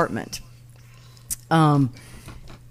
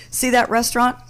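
fake posh accent; 6 semitones higher than usual. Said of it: "in some accent she does".

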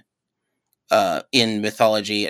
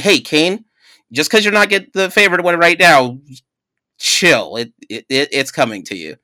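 lightly voiced laid-back God, a touch louder; casual warning God; 4 semitones higher, 4 dB louder than usual. God warning Cain, casual and mock laid-back. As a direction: tell Cain to chill, half joking. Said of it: "Basically warning".

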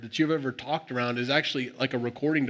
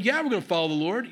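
higher-pitched, insistent comeback; building insistence; 6 semitones higher than usual. Retold or imitated. People answering Joshua's doubt, insistent. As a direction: push back, pitch climbing with resolve. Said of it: "it's a building thing".

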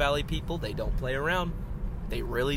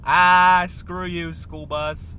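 loud, raised-pitch outburst; exasperated yell; 4 semitones higher, 12 dB louder, much slower than usual. Real, not acted. Driver stuck behind a school bus, exasperated yell. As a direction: yell it at the traffic in your way.

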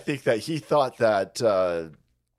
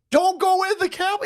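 imitating a bullhorn plea; bullhorn warning. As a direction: warn the crowd over a megaphone. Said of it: "He's on a bullhorn".

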